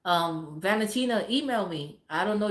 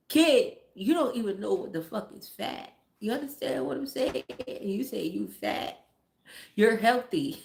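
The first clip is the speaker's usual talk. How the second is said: raised pitch, incredulous telling-off; exasperated scolding; 5 semitones higher than usual. Retold or imitated. Mother telling her son he isn't fat, exasperated scolding. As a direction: scold the kid in disbelief.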